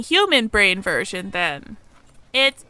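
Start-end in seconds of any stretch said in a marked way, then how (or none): 2.3-2.6 mock mystical. Teasing the human with a dismissive answer.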